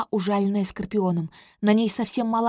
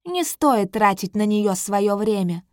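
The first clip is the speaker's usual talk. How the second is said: mocking; 5 dB louder than usual. King Tamur continues mocking.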